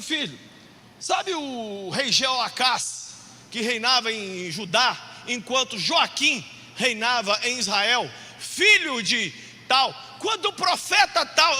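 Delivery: lightly voiced grandfather, slow and emphatic; ponderous imitation of grandpa; grandfather quizzing. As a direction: draw out the names like a scholarly grandpa. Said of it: "ele falava assim".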